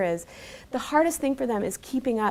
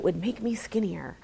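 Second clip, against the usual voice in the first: whispering; 5 dB quieter than usual. Acted. Mock promise of a photo app.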